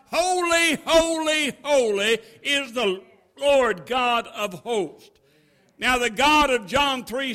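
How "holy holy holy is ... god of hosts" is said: angels crying out. Retold or imitated. Preacher voicing the angels' cry, raised and slowed. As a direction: proclaim it like angels before the throne. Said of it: "they cry out".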